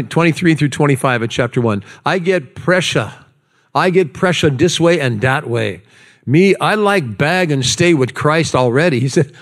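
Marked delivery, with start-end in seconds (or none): 2.0-9.0 put-on Hawaiian Pidgin lilt; playful Hawaiian Pidgin reading; Hawaiian Pidgin accent. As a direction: read it in your best Hawaiian Pidgin. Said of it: "in my best, uh, Pidgin accent".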